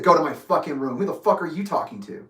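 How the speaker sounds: retold indignant challenge, mildly heated; incredulous, mildly angry retort; indignant comeback. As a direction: throw the order back at him. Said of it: "Like that".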